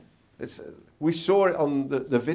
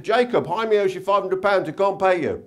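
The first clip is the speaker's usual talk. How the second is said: higher, lightly put-on Jewish accent; wife's raised voice, Jewish accent; 5 semitones higher, 4 dB louder than usual. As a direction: call out in a mock Jewish accent. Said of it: "he said it in a Jewish accent".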